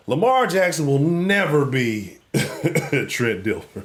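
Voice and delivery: slow, laughing, can barely get it out; cracking up at his own joke, slowly; laughing through it. Real, not acted. Host laughing at Ravens fans while declaring it.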